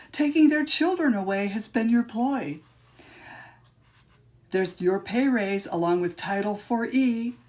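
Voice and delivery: measured, rhythmic recital of her own poem; poem reading. Acted. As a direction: read it like a spoken-word poem, leaning on the rhymes. Reads second poem aloud.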